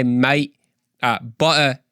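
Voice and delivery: a light Cockney accent. Shown as a demonstration. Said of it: "sounded more like Cockney British".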